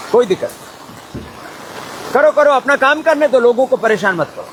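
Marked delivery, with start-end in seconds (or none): 2.1-4.5 starts higher, settles back down; instructing aside. Real, not acted. Speaker tells helpers to leave people alone, instructing aside. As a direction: break off to direct the people nearby.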